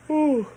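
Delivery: loud high yawn. Real, not acted. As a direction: yawn wide and long. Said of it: "so sorry I'm yawning".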